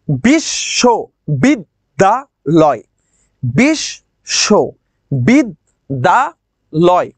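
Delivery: বিশ, শো, বিদ, দা, লয়, broken into five beats and repeated; pausing between syllables. Shown as a demonstration. Teacher recounting the stops for students, বিশ, শো, বিদ, দা, লয় syllable by syllable. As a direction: count out বিশ, শো, বিদ, দা, লয় with a short stop after each. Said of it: "পাঁচবার".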